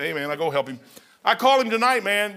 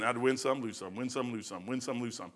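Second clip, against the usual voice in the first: fading singsong; 6 semitones lower, 10 dB quieter than usual. Real, not acted. Pastor recalling the slot machine, fading singsong. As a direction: win some lose some, dropping softer and softer.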